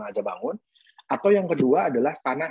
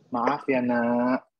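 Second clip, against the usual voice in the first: slow gentle apology; much slower than usual. Shown as a demonstration. Dentist showing parents how to apologise to child, slow and tender. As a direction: draw it out tenderly, like soothing a toddler. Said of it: "Pelan-pelan kasih taunya".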